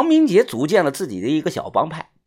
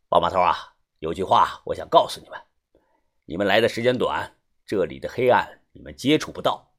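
lightly voiced, lower-pitched man; middle-aged fixer, parting warning; 5 semitones lower than usual. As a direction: give a measured word of caution. (中年男人压低嗓音临别提醒)

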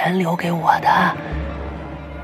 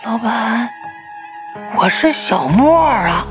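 high, loud, breathless horror telling; 紧张惊恐的讲述; 11 semitones higher, 6 dB louder than usual. Acted. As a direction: build the terror, pushing higher and louder. Ghost dream climax, narration and quotes. (越说越惊恐，声音高而响)

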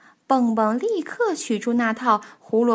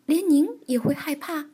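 mildly incredulous, higher-pitched question; astonished; 4 semitones higher than usual. Acted. Children ask Granny Bear about her fears, astonished. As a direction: wonder aloud in disbelief. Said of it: "惊讶地问".

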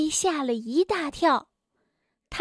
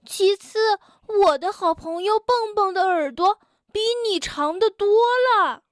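indignant correction; 4 semitones higher, 3 dB louder than usual. Acted. Tiaotiao corrects rude guest.

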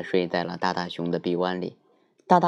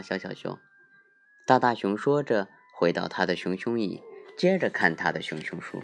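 sleep story narrator. A narrator's reading.

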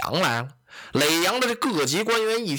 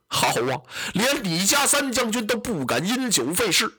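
put-on Zhang Fei dressing down a drunk magistrate; hammed-up general's wrath; angry rebuke; 3 semitones higher than usual. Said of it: "张飞生了气了".

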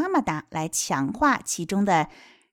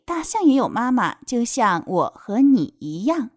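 put-on lilting question and answer for children; picture-book reading; 4 semitones higher than usual. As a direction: read it out expressively to little ones. (有起伏地给孩子读绘本)

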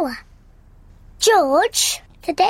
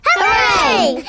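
high, loud happy shout; excited cheer; 10 semitones higher, 4 dB louder than usual. Real, not acted. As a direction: cheer it out with delight. Cheering the pictures going up.

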